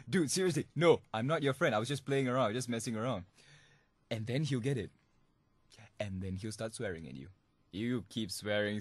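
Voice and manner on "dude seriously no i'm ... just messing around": mock insistent. Prankster insisting to caller it was a joke, louder. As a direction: make him finally get it. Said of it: "he'll be like".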